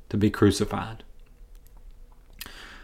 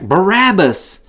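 raised, drawn-out mock crowd shout; crowd shouting back; 6 semitones higher, slower than usual. A narrator's reading. Crowd shouting back its choice to Pilate, raised drawn-out cry. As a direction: call it out like a crowd, slow and high. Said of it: "the crowd shouted back".

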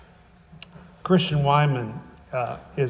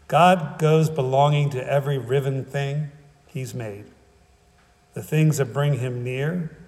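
slow, measured poetry recital; unhurried reading of a solemn poem; slower than usual. Acted. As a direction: read it as verse, with a pause after each line. Reads a poem aloud.

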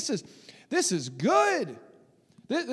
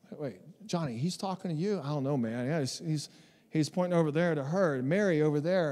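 much softer and lower, murmured to a neighbour; hushed crowd aside; 9 semitones lower, 7 dB quieter, faster than usual. Acted. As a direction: lean in and gossip under your breath. Crowd members whisper to each other.

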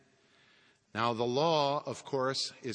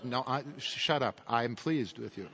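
Christ cutting in; 4 dB quieter than usual. Acted. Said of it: "He sounds like this".

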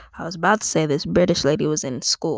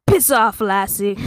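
bad Irish accent; 2 semitones higher, 6 dB louder than usual. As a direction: tell someone off as a stage Irishman. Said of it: "the Irish guy was like".

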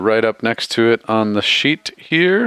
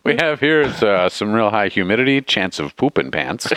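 weatherman voice. Retold or imitated. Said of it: "hear a fucking actual weatherman say that".

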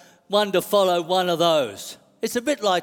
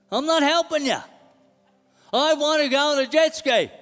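a hint of stubborn, higher-pitched protest; defiant flesh guy; 5 semitones higher than usual. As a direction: argue back as the resentful flesh. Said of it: "And Fleshy says".

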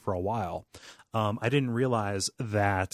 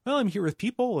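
mock reasoning; 12 semitones higher than usual. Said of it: "And I'm like".

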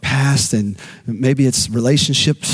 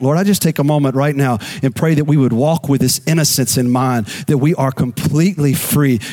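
prayer; 3 semitones lower than usual. Real, not acted. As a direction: pray gently over the listeners. Prays for congregation.

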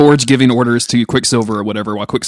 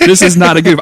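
insistent; 4 semitones higher, 4 dB louder than usual. Real, not acted. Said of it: "I am genuinely excited about it".

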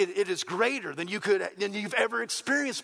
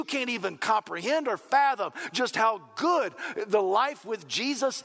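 emphatic, slightly raised preaching voice; fervent preaching; 4 semitones higher than usual. Real, not acted. Preacher telling the congregation how good life is, fervent. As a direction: drive each phrase home with a punch.

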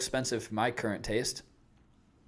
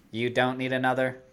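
mock robot refusing a snack; lightly robotic, evenly spaced words. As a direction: play a talking machine scolding. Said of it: "Or, like, maybe less robotic voice".

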